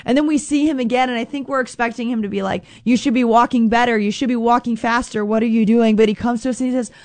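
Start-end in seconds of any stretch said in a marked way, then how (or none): 2.9-6.0 a touch of scolding; condemning voice. Pretend. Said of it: "Don't think of that condemning voice".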